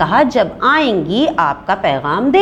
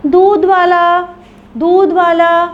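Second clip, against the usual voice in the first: a hawker's loud call, higher; 10 semitones higher, 5 dB louder, slower than usual. A narrator's reading. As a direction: call to the house from the door. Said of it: "दूध वाले ने आवाज़ लगाई".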